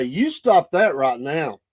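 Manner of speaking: slow, firm telling-off; retold stern order, each word weighted; imitated scolding grandma. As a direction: lay down the law like a neighborhood grandma, slowly. Grandmas scolding kids in the street.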